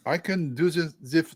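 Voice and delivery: light, pleading French accent. Shown as a demonstration. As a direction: reassure them in a nice French accent. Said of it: "the nice French accent".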